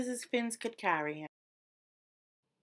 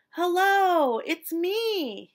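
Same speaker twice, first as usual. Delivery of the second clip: higher, louder happy call; 8 semitones higher, 6 dB louder, much slower than usual. A narrator's reading. Fish calling to his school at last. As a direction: call out to his found friends. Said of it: "he called".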